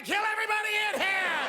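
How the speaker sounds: put-on high, fast crazed drunk yelling; drunk lunatic yell. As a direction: rant like a madman in line.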